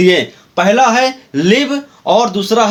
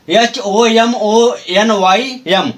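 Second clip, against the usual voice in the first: slow letter-by-letter spelling; much slower than usual. Shown as a demonstration. Teacher spelling homonym slowly for students. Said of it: "होमोनिम".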